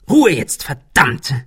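lautes, hohes, wütendes Dazwischenfahren; Fauchen. A narrator's reading. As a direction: fahr den anderen fauchend an. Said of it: "fauchte Ben". (wütend angefaucht)

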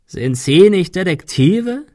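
slow, high, croaking question; croaked. A narrator's reading. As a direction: croak it in mock surprise. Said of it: "krächzte er". (langsam und höhnisch gekrächzt)

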